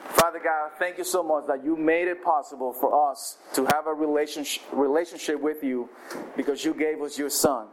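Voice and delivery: pastor leading the church in closing prayer. Real, not acted.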